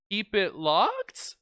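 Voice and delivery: slow unsure rising delivery; a touch of nerves before the boss; nervous. Pretend. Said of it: "my character's a little bit nervous that time".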